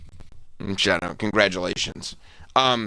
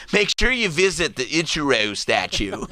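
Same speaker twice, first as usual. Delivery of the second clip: mock tourism ad; 3 semitones higher, slower than usual. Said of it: "I'm Buddy Dyer".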